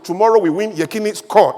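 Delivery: a hint of the coach's broken English, short and confident; mild impression of a foreign coach's clipped promise; lightly imitating Westerhoff. Speaker quoting the Nigerian coach's pep talk, lightly imitated. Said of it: "That's how he talks".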